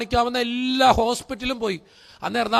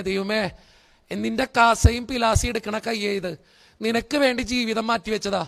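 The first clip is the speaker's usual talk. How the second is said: retold desperate prayer, understated tears; tearful prayer. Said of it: "അന്ന് കരയാ ഞാൻ ശരിക്കും".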